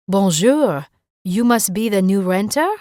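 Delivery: put-on a light French accent, Bonjour said with a nasal French on; thick French accent. Rosalie greets the new renter in a light French accent. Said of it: "the woman said in a thick French accent".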